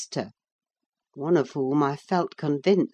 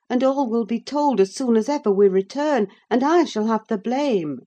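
raised, worried scolding voice; anxious nurse; 7 semitones higher, 5 dB louder than usual. Acted. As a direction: reproach him, fearful of blame. Nelly reproaching Heathcliff.

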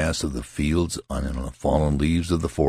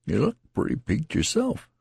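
higher rustic soldier voice; lightly voiced country soldier; tattered soldier; 14 semitones higher than usual. A narrator's reading. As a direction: play the rambling wounded soldier. Tattered man speaking.

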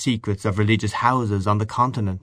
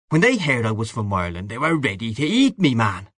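lively, higher-pitched Irish man of the world; hearty boastful Gallagher figure; 4 semitones higher than usual. Acted. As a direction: boast like a worldly old pal, full of relish. Voices Gallagher in dialogue.

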